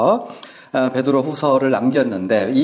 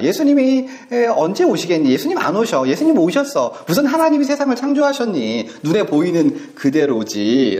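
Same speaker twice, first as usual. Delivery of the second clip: lightly voiced scoffing, leaping high on 예수님이 and 무슨; mocking; 3 semitones higher than usual. Scoffers mocking Jesus' return, mild sneer. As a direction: sneer at the idea of the Second Coming. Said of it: "구원하심을 조롱하는".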